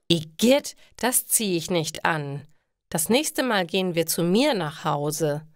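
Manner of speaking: leicht höher gesprochene, verwöhnte Ingrid, angeekelt; rümpf die Nase über das Kleid, etwas höher; genervte Ingrid. Acted. (Ingrid lehnt das rote Kleid ab, leicht angewidert und höher)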